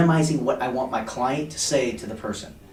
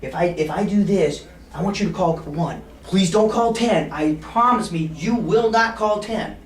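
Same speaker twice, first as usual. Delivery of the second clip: playful bet; 4 semitones higher, 4 dB louder than usual. Shown as a demonstration. Salesman making a bet with a client, teasing plea. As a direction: ham up the please. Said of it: "so then I'll say".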